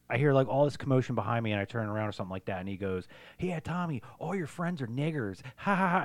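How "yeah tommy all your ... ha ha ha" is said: higher-pitched schoolboy taunt; imitated playground mockery; taunting kid. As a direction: jeer like a kid, with a mocking laugh. Kid taunting in retold story.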